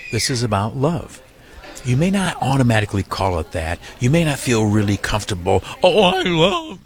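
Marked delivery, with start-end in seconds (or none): 0.1-1.2 tender take with rising "love". Real, not acted. Repeated slogan, two takes. 5.8-6.8 high, squeaky put-on gush; mock gushing donor voice, pitched high; mock sappy donor. Mocking a reluctant donor.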